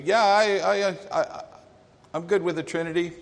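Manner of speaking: mock someone dodging a hard topic; evasive stammer. Voicing a hesitant, evasive believer.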